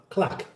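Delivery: "clack" for the end of o'clock; mimicked clack. Host recalling the first time he said it, mimicked pronunciation. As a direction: quote his pronunciation "clack". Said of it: "the first time I said that".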